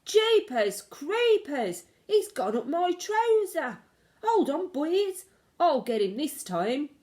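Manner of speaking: high, loud, slow panicked yell; panicked shouting. Acted. Cook with the mouse in his trousers, panicked loud shout. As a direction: yell for help, dragging the words. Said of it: "the cook shouted".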